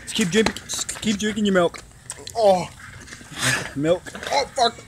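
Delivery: mouth burning from spicy food. Real, not acted.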